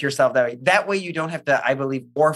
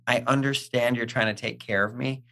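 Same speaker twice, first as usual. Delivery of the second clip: kind to the inner voice; 3 semitones lower, 5 dB quieter than usual. Retold or imitated. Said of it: "I don't have to be mean to that voice".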